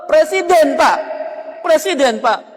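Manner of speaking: preacher exclaiming in lament; dismayed exclamation. Real, not acted. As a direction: cry out the word in dismay. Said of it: "exclaims in dismay".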